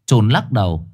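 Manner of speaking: plain reading voice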